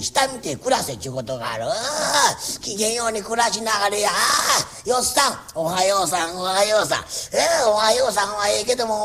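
a lightly voiced fussy old landlord making his rounds; nagging landlord. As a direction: scold each tenant kindly but nonstop. Landlord scolds tenants each morning. (小言好きの家主が長屋を回って小言を言う口調)

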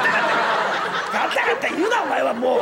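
loud, slow telling-off through a laugh; loud scolding, half laughing. Acted. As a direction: bark at him to stop fussing. Scolding the fussing cat.

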